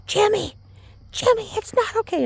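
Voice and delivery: mild mock scream to her husband; mock screaming wife. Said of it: "she was just screaming".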